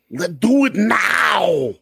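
high squawky cartoon duck voice; Donald Duck voice. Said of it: "in Donald Duck's voice".

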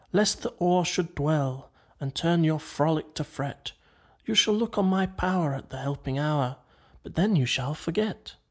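measured, understated verse reading; verse recitation. A narrator's reading. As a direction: recite it lightly as overheard words. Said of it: "Now is turning into words again".

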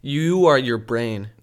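slow mock-profound delivery.

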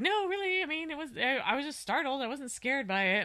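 imitating mom. Mother denying she was scared of the snake, high mock voice. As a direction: squeak it out like a startled mom insisting she's fine. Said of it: "and she's like".

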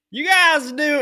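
high, loud mock North Carolina twang; North Carolina caller accent. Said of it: "We don't sound like that".

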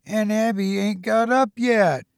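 a touch of high, innocent wonder; innocent surprise. A narrator's reading. Luella, innocent and surprised, about Aunt Abby still in bed. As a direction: say it like a puzzled child. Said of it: "sort of innocent and surprised".

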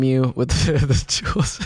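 holding back a laugh; trying not to crack up; stifled giggles. Real, not acted. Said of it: "It looked like you were laughing".

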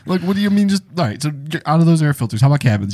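lightly voiced salesman switching products; pushy sales rep. Sales rep moving on to cabin filters, mildly pushy. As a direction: brush off the refusal and keep selling. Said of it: "perfect impression of exactly what these people are".

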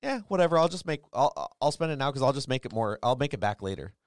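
put-on high, loud careless teen brush-off; mimicking the teenage son, breezy and dismissive; teen son's shrug. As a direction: toss it off like a carefree sixteen-year-old. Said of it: "he looks at me and goes".

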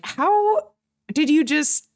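high, loud, slow astonished gasp of a question; stunned disbelief. Retold or imitated. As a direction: play the amazed sister, jaw on the floor. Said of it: "She's like".

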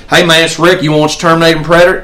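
rattled-off invitation, very fast; mock eager friend. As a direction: rush through it like the pushy friend. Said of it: "every weekend".

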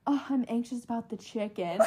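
soft mimicry of an anxious friend; understated imitation of meek worry; anxious, mimicked. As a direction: quietly echo the worried confession. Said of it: "the way you just said".

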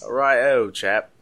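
hammed-up British chap; jokey British greeting; mock British accent.

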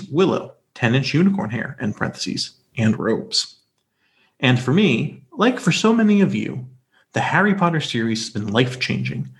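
smooth, even radio reading voice; calming radio voice. Acted. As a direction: read it like a soothing radio host. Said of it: "you do have your calming radio voice".

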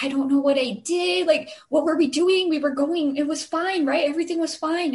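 mock fretful protest, pleading for reassurance; freaking out. Driver to friend while being pulled over, freaking out. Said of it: "She starts freaking out".

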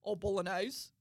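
"bolognese" said the broad Australian way; casual, understated Australian accent. Shown as a demonstration. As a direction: order it in ordinary Australian. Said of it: "in, like, an Australian accent".

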